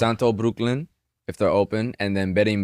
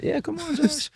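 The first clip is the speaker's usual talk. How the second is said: excited greeting; 4 dB quieter than usual. Real, not acted. Greeting Josh arriving.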